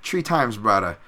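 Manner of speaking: "three" as "tree" in high-pitched pidgin; Hawaiian pidgin accent. Shown as a demonstration. Showing how Hawaiians say three, high pidgin accent. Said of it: "we pronounce three the same way the Irish do".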